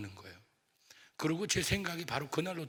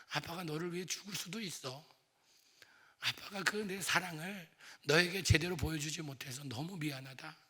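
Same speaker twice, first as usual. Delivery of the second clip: tearful apology; 4 semitones higher than usual. Retold or imitated. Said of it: "그러면서 끌어안고 울었어요".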